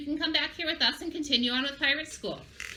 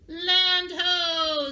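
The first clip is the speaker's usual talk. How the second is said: high, loud lookout call; piratey call; 7 semitones higher, 5 dB louder than usual. Shown as a demonstration. Teacher showing children the call for spotting land, piratey. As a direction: sing out from the crow's nest, long vowels. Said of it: "we need to sound piratey".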